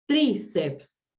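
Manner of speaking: "tríceps" said firmly, TRÍ stressed, falling after. Shown as a demonstration. Teacher telling students to accent the I, first syllable stressed. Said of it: "Acentúan la I".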